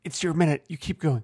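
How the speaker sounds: talking past a tickle in the throat; quiet, with a catch in the throat; something in throat. Real, not acted. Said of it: "I just have something in my throat".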